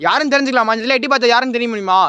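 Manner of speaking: high, loud question into the dark; calling out. Real, not acted. Ghost hunter asks the spirit who it is, loud and high. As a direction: call out and ask who's there.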